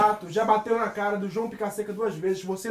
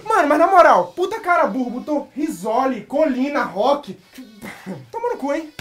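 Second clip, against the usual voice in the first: irritado; 4 semitones higher, 4 dB louder, slower than usual. Real, not acted. Se xinga após errar.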